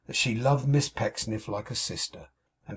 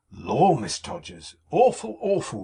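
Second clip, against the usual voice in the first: "Awful, awful!" flung out high and loud, each "awful" hit hard; strong emphasis; 7 semitones higher, 4 dB louder than usual. A narrator's reading. Mrs Todgers to Miss Pecksniff, "Awful, awful!" stressed high and loud. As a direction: lean hard on both "awful"s, pitch leaping up. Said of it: "repeated Missus Todgers with a strong emphasis".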